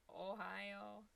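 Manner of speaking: lightly demonstrated Ohio accent. Shown as a demonstration. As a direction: say "Ohio" with local vowels. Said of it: "I just said it that way".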